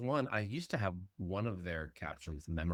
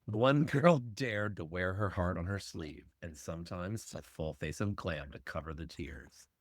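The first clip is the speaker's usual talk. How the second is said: horror trailer voice; 3 semitones lower, 5 dB quieter than usual. Acted. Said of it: "Dramatic movie trailer voiceover".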